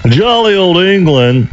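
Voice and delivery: a slow, hammed-up British English accent on jolly old England. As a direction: play it up like a proper Englishman, slowly. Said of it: "That was my English accent".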